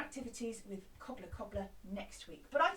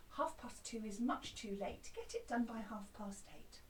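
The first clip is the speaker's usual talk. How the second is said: calm cobbler; 3 semitones lower, 4 dB quieter than usual. Shown as a demonstration. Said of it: "with a different voice".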